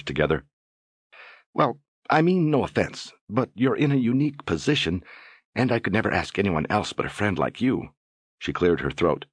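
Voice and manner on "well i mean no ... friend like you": put-on high, hesitant young woman; nervous young woman. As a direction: fumble nervously into it. Nervous Phoebe voiced.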